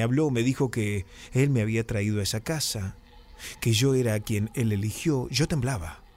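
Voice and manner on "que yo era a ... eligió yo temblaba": ordinary delivery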